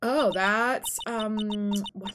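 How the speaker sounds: put-on halting, ditzy Valley Girl; Valley Girl accent. Girl reacts to murder news, Valley Girl accent. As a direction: search vaguely for words in Valley Girl style. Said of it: "hear my Valley Girl accent".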